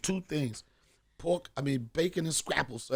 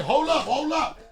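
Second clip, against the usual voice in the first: higher, laughing hold up; mock grandma; 10 semitones higher, 7 dB louder than usual. Grandma rushing for the money, excited laughing. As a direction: act her rushing. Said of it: "Yo, like, straight up".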